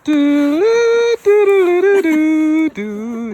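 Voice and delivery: high, hooting bird call; loon call. Pretend. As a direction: hoot like a loon on a lake. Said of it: "the theme from E T".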